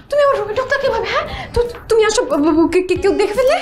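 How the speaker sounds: panicked stammer. Acted. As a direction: stammer in alarm at a secret visitor. Panics at secret visitor in her room. (আতঙ্কে তোতলানো)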